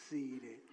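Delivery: Seated said low and falling; emphatic demo. Shown as a demonstration. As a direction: drop seated low together. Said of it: "I want you to go like this".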